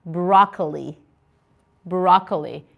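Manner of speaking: "Broccoli" pronounced carefully, pitched low; pronunciation demo. Shown as a demonstration. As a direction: model "Broccoli" clearly for learners, with a falling tone. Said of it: "do not pronounce it well. Please pay attention".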